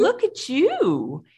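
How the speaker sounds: high, drawn-out cooing greeting; imitated movie line. Quoting the elf greeting someone with arms out, high cooing imitation. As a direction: coo it high, stretching it out. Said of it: "in that vo-, voice with that inflection".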